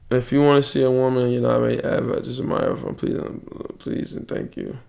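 low, very soft, near-whispered; quiet aside. Real, not acted. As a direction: drop the voice way down, talking to yourself. Private aside while messaging a woman.

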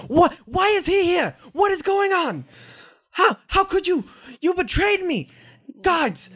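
high-pitched, squawking panic and outrage; outraged shouting. Acted. Wilfred, betrayed, calls his guards, high outraged shouting. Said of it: "he starts shouting for his security staff".

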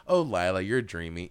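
mock swooning. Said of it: "just like".

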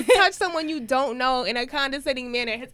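loud, high, emphatic disbelief; appalled indignation. Retold or imitated. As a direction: hammer out each word in loud outrage. Appalled at the shoulder pat.

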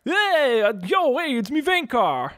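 a hint of a laid-back horse; casual greeting as Vankar. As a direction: Vankar introducing himself, lightly voiced. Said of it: "how did Vankar".

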